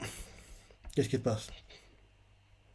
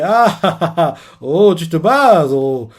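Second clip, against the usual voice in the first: laughing tease; 4 dB louder, slower than usual. Retold or imitated. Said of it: "vu comment la personne rigole".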